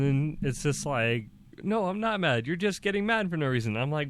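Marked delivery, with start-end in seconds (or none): 1.6-3.8 much higher, quickening imitation of a quarrel; retold indignant denial. Wife denying anger to her husband, retold indignant denial. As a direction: fire back defensively in a raised pitch.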